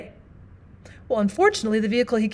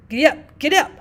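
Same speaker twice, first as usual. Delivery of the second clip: urging the horse; 4 semitones higher, 6 dB louder than usual. Acted. Rider urges horse on.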